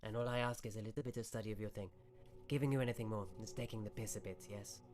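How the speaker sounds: lightly voiced wizard, mildly put out; a hint of a wizard making a final offer; bargaining wizard. Game master voices the wizard.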